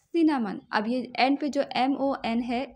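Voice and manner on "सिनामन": सिनामन said louder as a clear model; emphatic model word. Shown as a demonstration. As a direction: punch out सिनामन for the class. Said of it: "English में कहते हैं सिनामन".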